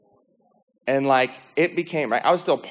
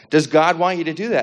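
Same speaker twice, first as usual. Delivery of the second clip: higher, firmer retold question; insistent voice; 5 semitones higher, 4 dB louder than usual. The voice asking him once more about smoking, insistent. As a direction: press the question harder.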